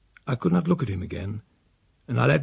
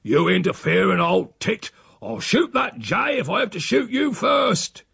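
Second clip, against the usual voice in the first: put-on much higher, furious old man; shouting; 8 semitones higher than usual. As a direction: yell it at the housekeeper. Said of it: "he shouted at her".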